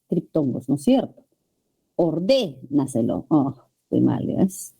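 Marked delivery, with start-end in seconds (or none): 1.9-3.3 Ordénaselo drawn out slowly on DÉ; stress on DÉ. Shown as a demonstration. Teacher finding the stressed syllable, Ordénaselo with a long DÉ. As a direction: stretch the dé of Ordénaselo, then let the rest fall. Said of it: "sobre esdrújula y debe estar".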